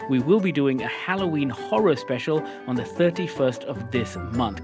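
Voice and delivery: ordinary talk, nothing marked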